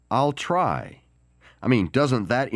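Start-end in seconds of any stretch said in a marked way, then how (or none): 0.1-1.0 "I'll try." lifted higher, stress on "try"; higher take. Shown as a demonstration. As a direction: push "I'll try." up with weight on "try".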